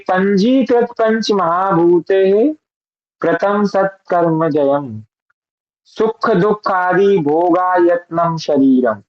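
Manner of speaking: slow, careful Sanskrit chant-like reading; mantra recitation. Shown as a demonstration. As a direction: recite the verse syllable by syllable. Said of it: "आगे हम इसका वो भी पढ़ेंगे". (धीमा, स्पष्ट संस्कृत पाठ)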